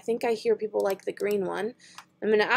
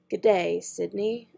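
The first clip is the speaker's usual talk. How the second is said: put-on Australian accent. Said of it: "It's like you say it with an accent".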